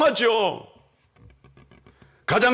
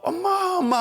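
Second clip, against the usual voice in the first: mock child crying; 11 semitones higher than usual. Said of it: "하고 울었던 것 같아요".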